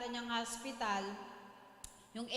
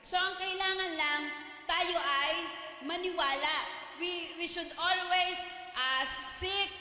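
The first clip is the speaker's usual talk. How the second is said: fervent preaching; 3 semitones higher than usual. Acted. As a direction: preach it with rising conviction, reading scripture aloud. Preaching the testimony's lesson.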